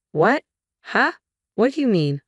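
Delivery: sudden high-pitched disbelief; shocked disbelief. A narrator's reading. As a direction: caught completely off guard. Shocked at being told to leave.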